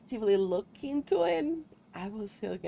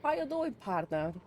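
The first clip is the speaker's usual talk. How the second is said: a committed but light Texan cowboy greeting; cowboy accent; 4 semitones higher than usual. Pretend. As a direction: lean into the cowboy accent a bit higher at the start. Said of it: "to commit to the accent".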